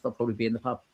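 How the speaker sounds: normal talking voice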